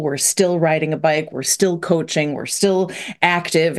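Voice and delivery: "still" stressed in each phrase. Retold or imitated. Listing what people cling to, stress on "still". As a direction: hit "still" every time in the list. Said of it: "we emphasize this word still".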